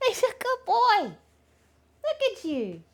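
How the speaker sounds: very high, excited praise; gushing pet talk. Real, not acted. Praising the dog as a good boy, high gushing voice. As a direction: coo high and big at the dog.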